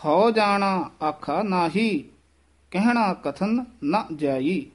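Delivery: ਜੇ said apart, then ਹਉ without a ਹ; slow, ਜੇ, pause, ਹਉ ਜਾਣਾ; ਹਉ with no ਹੋ sound; separate ਜੇ. Shown as a demonstration. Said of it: "ਜੇ ਵੱਖਰਾ ਕਹਿਣਾ ਹੈ".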